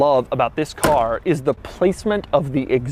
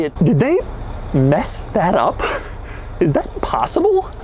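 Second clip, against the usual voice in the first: incredulous surprise. Real, not acted. Spotting the accent mismatch.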